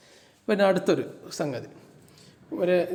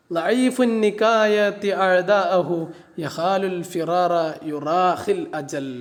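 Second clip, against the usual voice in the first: slow verse recitation; much slower than usual. Shown as a demonstration. Teacher reciting an Arabic verse to the class, slow chant. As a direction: chant the Arabic line slowly and evenly. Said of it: "teacher recites the Arabic verse".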